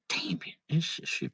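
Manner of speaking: damn it breathed out in a whisper; whispering to self; whispered curse. Real, not acted. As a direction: hush it like a private grumble. Overwhelmed by the menu.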